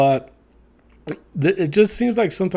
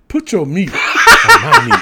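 much higher, laughing mock quote; 11 semitones higher, 9 dB louder than usual. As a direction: squeal it out through laughter.

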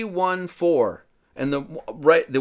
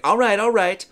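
grudging agreement; 6 semitones higher, 5 dB louder than usual. Retold or imitated. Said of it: "It's like".

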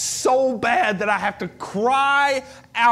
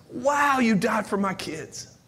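overwhelmed. Retold or imitated. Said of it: "laying going".

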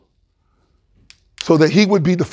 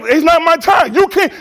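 a hint of a high, firm Jesus; lightly voiced Jesus, firm; Jesus speaking; 9 semitones higher than usual. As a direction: let Jesus calmly state it. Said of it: "Jesus like".

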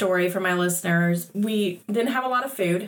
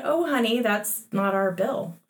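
calm. Retold or imitated. Daughter imitates mom turning down the found bill, calm. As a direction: gently let a child down, unhurried. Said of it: "you pretty calmly just said".

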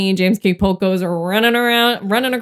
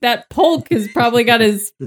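lightly voiced Jackson; 3 semitones higher than usual. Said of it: "Andrew Jackson was like".

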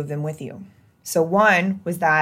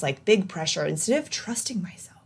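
confiding aside; 2 semitones higher than usual. Real, not acted.

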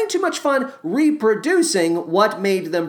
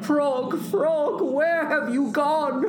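high, pleading storybook cry; acted panic, pitched way up; distressed calling; 7 semitones higher, 4 dB quieter, slower than usual. A narrator's reading. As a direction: call desperately for a lost friend. Toad frantically calls for missing friend.

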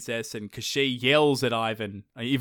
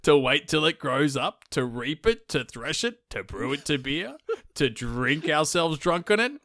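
talking horse; 3 semitones higher than usual. Retold or imitated. Horse voiced in story.

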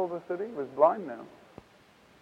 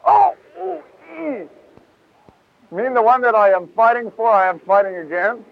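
Paul startled; 4 semitones higher than usual. Acted. Preacher acting Paul's surprised realisation.

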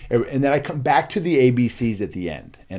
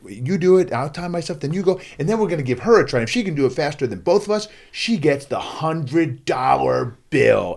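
put-on higher, lively showman's pitch to kids; hyping a challenge; 5 semitones higher, 3 dB louder than usual. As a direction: build the stakes, stretching out the prize. Acting out his pitch to crowd.

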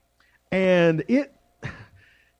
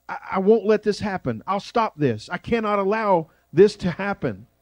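higher-pitched, agitated mild protest; imitated emotional objection, raised pitch without shouting; mock chewing out; 4 semitones higher than usual. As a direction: play an upset disciple chewing out his teacher. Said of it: "begins to chew him out".

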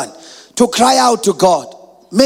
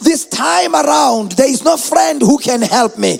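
insistent preached plea; driving, repetitive prayer cadence; crying out in prayer. Acted. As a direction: plead with God line by line. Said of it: "cry out and say".

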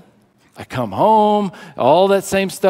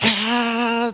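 happy sigh; 5 semitones higher, 4 dB quieter than usual. Acted. Blissful husband cleaning with big smile.

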